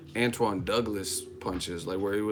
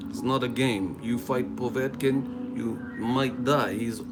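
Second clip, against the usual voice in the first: mock-Russian tough talk; Russian accent. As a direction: warn them in a Russian accent. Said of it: "Shout out to the acting skills".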